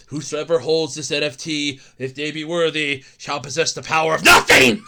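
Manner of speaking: low, grand solemn decree; mock inscription. Streamer parodying the Mjolnir inscription, low solemn decree. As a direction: intone it like ancient lore. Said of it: "It's freaking Mjolnir".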